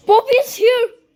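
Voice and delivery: slow, breathy spooky voice after a gasp; mock-scary reading in English; creepy voice. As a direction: gasp then read it like a ghost story. Reads creepy game message aloud.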